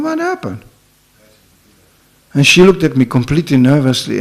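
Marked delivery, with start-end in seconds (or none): 0.0-0.6 high startled "What happened?"; pitched-up surprised query; surprised question. Retold or imitated. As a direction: ask it in sudden alarm. Narrator startled in elevator.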